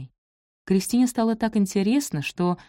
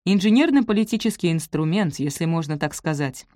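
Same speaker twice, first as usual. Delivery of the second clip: even, mechanical robot assistant voice. Acted. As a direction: speak like a helper robot. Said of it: "заговорил голосом робота-помощника".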